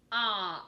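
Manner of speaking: "P-op" with each sound separated. Shown as a demonstration. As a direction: sound out "P-op" piece by piece. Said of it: "I'm gonna sound out those words".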